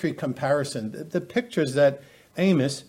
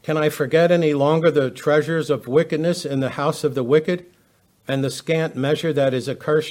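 steady, raised pulpit reading voice; scripture reading; 3 dB louder than usual. Acted. Preacher reading Micah to his listeners, raised reading voice. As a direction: declaim the verses to the congregation. Reads Micah aloud to congregation.

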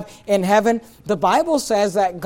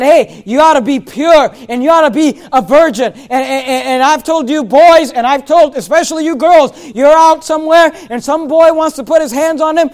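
loud, driving pulpit preaching; preaching at full force; 5 semitones higher, 8 dB louder than usual. Acted. Pastor warns the young people, preaching at full force. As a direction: hammer it home to the pews.

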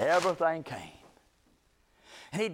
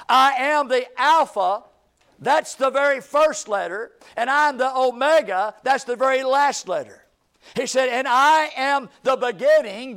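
raised, insistent pulpit delivery; ringing sermon build, phrase by phrase; emphatic preaching; 3 semitones higher, 3 dB louder than usual. Real, not acted. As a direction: drive each title home to the congregation. Preaches Christ's titles at full force.

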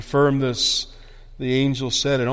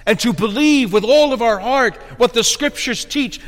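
raised, insistent pulpit voice; fervent preaching; 7 semitones higher, 3 dB louder than usual. Real, not acted. Preacher urging congregation to trust the Word, fervent preaching. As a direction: preach it with conviction.

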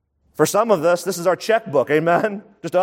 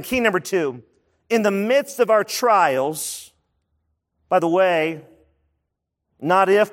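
slow dictation. Shown as a demonstration. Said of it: "Let me say that again".

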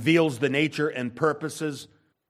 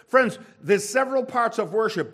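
normal talking voice

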